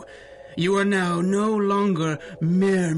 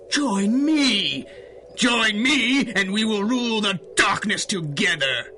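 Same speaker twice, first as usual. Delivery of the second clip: grand villain appeal; 3 semitones higher than usual. Acted. Villain tempting heroes.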